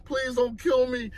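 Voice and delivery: high, soft mock-crying begging; imitated crying plea. Teenager begging a gunman for his life, imitated crying plea. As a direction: plead for your life, hushed and high. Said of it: "so I'm crying".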